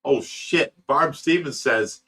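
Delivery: ordinary delivery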